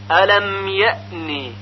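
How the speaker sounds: الم یأنی with hamza flowing into the n; slow recited alam ye'ni, held ن; correct eased hamza. Shown as a demonstration. Teacher reciting the example, lightly released hamza in یأنی. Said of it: "یعنی گفته نمیشه".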